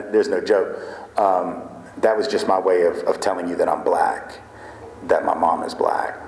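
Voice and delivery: sincere deadpan. Pretend. Speaker to the joke-teller, confessing in a sincere deadpan. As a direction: sell the lie with a straight face. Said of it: "so I wouldn't give it away with my face".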